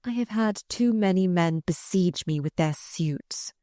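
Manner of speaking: plain reading voice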